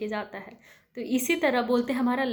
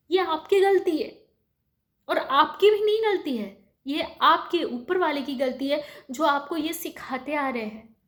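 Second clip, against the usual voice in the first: higher, louder, forceful admonishing; emphatic reproach; 4 semitones higher, 4 dB louder than usual. Real, not acted. Woman scolding listeners over treatment of servants, emphatic reproach. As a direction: drive the blame home, high and loud.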